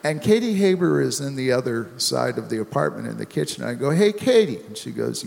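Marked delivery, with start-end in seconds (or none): 3.9-4.6 calling out loud across the flat. Retold or imitated. Calling to Katie in the kitchen, raised voice. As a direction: call her from the other room.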